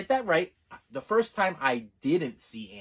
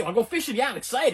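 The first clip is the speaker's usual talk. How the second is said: put-on excited kid; 7 semitones higher than usual.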